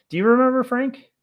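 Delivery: high, loud call across the room; calling out to Frank. Real, not acted. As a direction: call out to Frank so he hears from afar.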